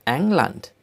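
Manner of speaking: German-style "England" with an 'eh' first vowel; German pronunciation. Shown as a demonstration. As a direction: say "England" as ENG-lant. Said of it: "names of countries with German accent".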